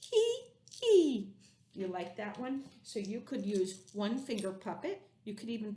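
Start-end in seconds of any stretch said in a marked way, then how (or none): 0.0-1.3 slow then high, loud mock giggle; playful hee-hee; giggling. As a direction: giggle like a cheeky little monster. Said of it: "But I'm just me".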